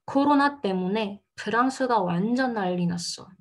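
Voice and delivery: careful model sentence with "난리" as nal-li. Shown as a demonstration. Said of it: "Je relis un petit peu plus doucement".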